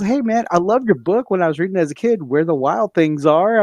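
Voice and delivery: high, teasing fake compliment; mock admiration. Friend needling his buddy with a book jibe, mock admiration.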